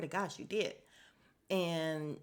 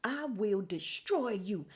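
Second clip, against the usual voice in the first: a hint of a sassy country old lady; lightly voiced Southern granny snapping back; 3 semitones higher than usual. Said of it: "she turned real country and like a country old lady".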